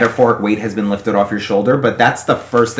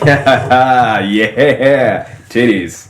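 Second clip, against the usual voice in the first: fake macho voice; much slower than usual. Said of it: "I'll go along and be like".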